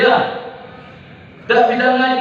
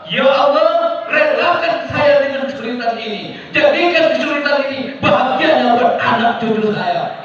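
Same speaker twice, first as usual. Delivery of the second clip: called-out prayer; 3 semitones higher than usual. Shown as a demonstration.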